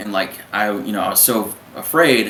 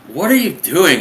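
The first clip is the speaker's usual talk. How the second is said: raised-pitch imitation of a confronting officer; acted interrogation, pitched up; mock demanding chief; 7 semitones higher, 4 dB louder than usual. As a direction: demand it like an incredulous superior.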